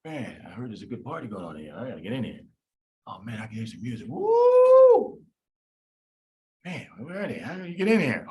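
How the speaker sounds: a cool guy knocking at the club door; pyruvate partygoer. Acted. Pyruvate at the club door, low cool-guy voice.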